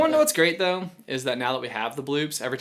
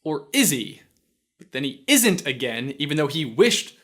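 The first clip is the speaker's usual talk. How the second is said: lively, punchy host delivery; emphatic scripted commentary; presenter read; 4 dB louder than usual. Acted. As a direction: explain it briskly to camera. Reads scripted line to camera.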